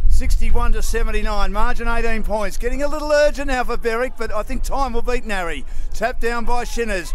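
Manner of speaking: brisk football commentator calling the play; live play-by-play. Acted. Caller describing the match to radio listeners, brisk play-by-play. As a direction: call each move as it happens.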